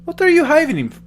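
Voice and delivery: put-on half in, half out of the old man voice. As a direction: slip between old man and own voice. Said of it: "partially the old man voice".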